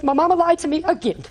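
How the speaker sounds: put-on high, tearful child's plea; granddaughter crying. Granddaughter who was crying so hard, high and tearful. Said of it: "but she was crying so hard".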